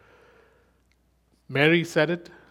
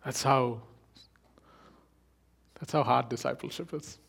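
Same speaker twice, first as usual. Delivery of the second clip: whisper; 3 dB quieter than usual. Real, not acted. Whispered emphasis.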